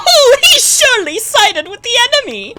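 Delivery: sly adviser cackling accusations to the king; Joker-like schemer. Acted. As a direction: play Iago as a giggling, unhinged court schemer. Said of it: "turn into the fucking Joker".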